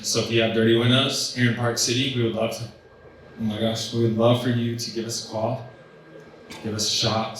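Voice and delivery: choking while talking. Real, not acted. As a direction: push through a choked throat. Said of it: "I'm choking over here".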